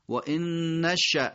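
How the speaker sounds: نشأ ending in a sudden glottal stop; final still hamza. Shown as a demonstration. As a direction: say و ان نشأ slowly, stopping hard on the hamza. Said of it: "همزمون در آخر ساکنه". (و ان نشأ شمرده، با همزهٔ ساکن در آخر)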